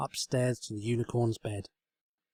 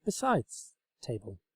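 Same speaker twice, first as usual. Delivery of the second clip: sincere, eager explaining; Twilight voice. A narrator's reading. Twilight speaks to table.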